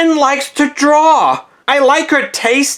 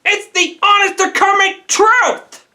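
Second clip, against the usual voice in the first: indignant outburst; 5 semitones higher than usual. Acted. Protesting when disbelieved.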